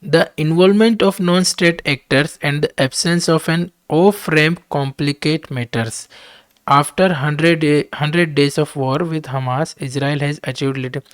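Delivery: reading the English text out very slowly and deliberately; slow dictation reading. Acted. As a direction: spell out each word for students to follow. Reads editorial aloud slowly. (धीमी गति से पाठ पढ़ना)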